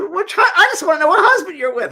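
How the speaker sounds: voiced mother. Voicing the dead mother's reply.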